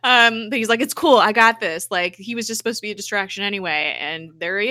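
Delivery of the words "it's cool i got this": cocky. Retold or imitated. Hunter brushes off crash.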